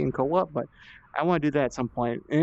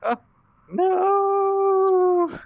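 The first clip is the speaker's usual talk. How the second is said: surprised; 5 dB louder than usual. Real, not acted. Falls while cheating.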